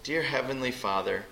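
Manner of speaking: soft and unhurried, pausing after Father; slow, lingering prayer. Shown as a demonstration. Pastor showing the congregation how to pray slowly. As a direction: let each word of Dear Heavenly Father sink in slowly. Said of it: "slow down right there".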